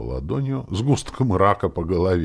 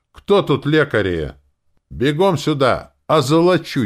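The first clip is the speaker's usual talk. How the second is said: much higher, louder call across the room; shouting; 10 semitones higher, 8 dB louder than usual. A narrator's reading. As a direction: yell for healers urgently. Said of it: "крикнул в сторону". (громкий крик в сторону, зовёт лекарей)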